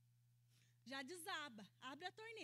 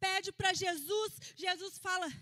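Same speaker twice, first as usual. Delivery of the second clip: preaching shout; 2 semitones higher, 5 dB louder than usual. Real, not acted. Preacher builds to the climax.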